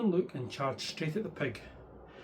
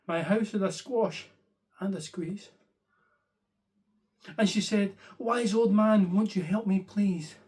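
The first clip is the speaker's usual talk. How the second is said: higher, louder flustered complaint; fretting old lady; 3 semitones higher, 3 dB louder than usual. Acted. Old lady wailing that her house is too crowded. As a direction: plead in a fluster.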